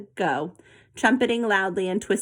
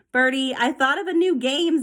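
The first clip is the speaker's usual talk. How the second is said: shouting; 5 semitones higher than usual. A narrator's reading. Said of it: "Zoe shouted".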